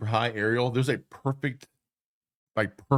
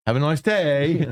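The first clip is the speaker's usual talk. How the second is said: lightly mimicked Scottish lilt, higher and louder; mock Scottish lilt; 5 semitones higher, 3 dB louder, slower than usual. Mimicking Scots shop talk, light Scottish lilt, higher. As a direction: sing it up like a Scot. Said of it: "everything's a question".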